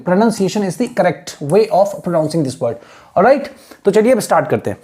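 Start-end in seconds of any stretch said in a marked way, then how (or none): 0.1-2.8 slow teaching read. Shown as a demonstration. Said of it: "teacher reads definition slowly".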